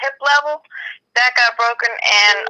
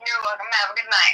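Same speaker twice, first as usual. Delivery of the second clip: buzzing phone interference; 6 dB quieter than usual. Real, not acted. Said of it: "the phone is near the, uh, microphone".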